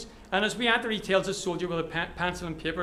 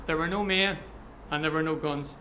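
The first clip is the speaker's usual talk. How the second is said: low, measured firmness; a little firmer; 4 semitones lower than usual. Acted. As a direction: repeat it calmly but more firmly. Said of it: "only a little firmer".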